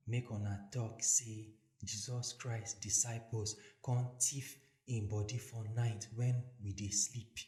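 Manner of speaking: low, hushed plotting; scheming priests. Acted. Priests tell the bribed soldiers what to say, low and hushed. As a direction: slip them the story on the quiet.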